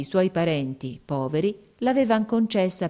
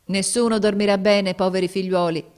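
exclaiming sailor; 3 semitones higher, 4 dB louder than usual. Acted. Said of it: "esclamò il marinaio".

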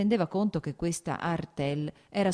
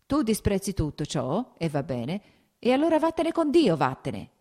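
rabbia che monta fino al grido; grido crescente; 5 semitones higher, 5 dB louder than usual. A narrator's reading. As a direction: parti contenuto, poi esplodi forte e acuto. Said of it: "gridò alzandosi dalla sedia". (grido di rabbia crescente)

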